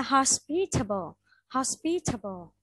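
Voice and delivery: "hospitable" peaking on pi, with a reduced tuh after it; stressed second syllable. Shown as a demonstration. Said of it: "nó không phải là thay mà nó là thờ". (đọc "hospitable", nhấn pi, âm sau là thờ)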